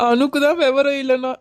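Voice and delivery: put-on crying while scolding the absent girls; a sob in the reproach; tearful complaint. Aunt frets about the runaway girls, crying.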